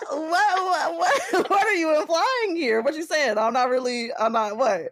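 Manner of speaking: reacting to grandmother's insinuation; mock scandalized. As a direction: play it scandalized and laughing. Grandma's phrase teasing reaction.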